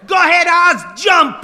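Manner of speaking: high, full-force yell; loud, high-pitched urging; egging-on shout. Acted. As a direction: goad a friend from down in the street. Itzy eggs on boy on roof.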